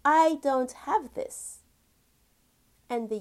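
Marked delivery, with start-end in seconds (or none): 0.0-1.6 louder, slow, each word pressed; emphatic complaint to the universe. Retold or imitated. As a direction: state the lack slowly and firmly. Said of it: "you are telling the universe".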